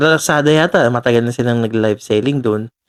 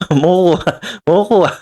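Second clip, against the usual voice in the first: "Makukuha" said higher with a laugh, as the fix; correcting himself; 6 semitones higher, faster than usual. Shown as a demonstration. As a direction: land on "Makukuha" brightly, relieved. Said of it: "sana tama yung pagkagamit sa word".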